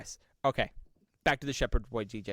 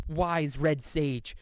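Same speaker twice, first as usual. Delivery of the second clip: solemn plea; 3 semitones higher, 3 dB louder than usual. Retold or imitated. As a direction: beg grandly like a knight at court. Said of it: "runs up to the Santa Claus and goes".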